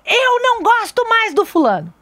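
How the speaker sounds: put-on high pouty child's complaint; a son's sulky high-pitched complaint. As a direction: mimic a sulky little boy. Child's angry quote retold.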